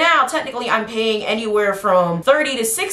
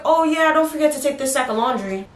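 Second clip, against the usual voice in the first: mom voice; 5 semitones higher than usual. Retold or imitated. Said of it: "She's like".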